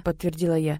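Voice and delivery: plain reading voice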